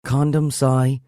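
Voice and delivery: mock exasperated girlfriend; complaining. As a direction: complain with a sigh. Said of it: "she says".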